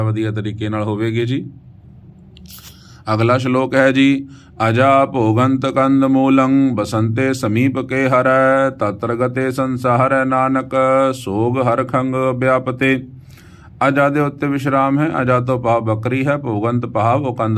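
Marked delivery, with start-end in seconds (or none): 4.7-13.1 slow, sustained Gurbani reading; measured verse chant on an even pitch; scripture recitation. Acted. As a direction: recite with long drawn vowels.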